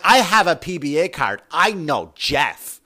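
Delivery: mock smug boast, the last words slow; lightly hammed-up show-off; smug card holder. Card holders waving cards at cops, mock smug. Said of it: "Some people wave them around like".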